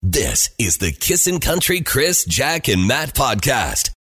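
slow, booming station ID; big produced radio tag; radio station ident. Acted. Recorded show ident.

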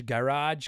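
GARAGE in two syllables, guh-RAHJ; careful pronunciation. Shown as a demonstration. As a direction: say "garage" with both vowels sounded. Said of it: "the way I say garage".

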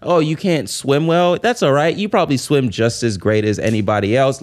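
lightly acted encouragement; optimistic Paddington. Character reassuring a poor swimmer, mildly upbeat. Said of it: "vocalizes it through optimism".

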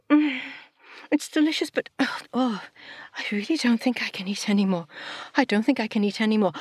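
high, full voice pushing away food; stuffed and can't take another bite; full-up groan. Acted. Satu to herself, too full to eat.

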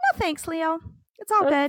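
put-on lightly polite little boy voice; a hint of a polite kid; polite child. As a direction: decline politely, sweetly. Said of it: "so politely".

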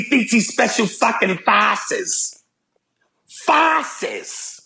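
ranting in a bad Boston accent, dragging out the end; horrific Boston accent. Comic doing a mock Boston driver in a bad Boston accent. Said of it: "do my horrific Boston accent".

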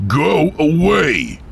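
high loud scream; terrified scream. Acted. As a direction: scream it away in terror. Mike screams at ghost.

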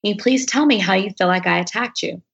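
retold calm, even request. Asking the ex on stage to explain his accusation, calmly. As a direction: ask evenly, keeping composure. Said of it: "I said it just as calmly".

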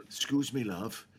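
soft, gentle imitated telling-off; quietly and kindly put him right; sweet woman. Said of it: "a very sweet woman".

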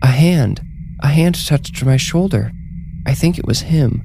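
high-pitched, breathless-with-hope report; high, amazed woman's voice; awed excitement. A narrator's reading. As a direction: raise the pitch in startled wonder. Wendy feels her dead husband's touch.

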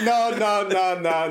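high, loud mock protest; fuming protest. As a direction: imitate an irate mate's repeated refusal. Retelling friend's fuming refusal.

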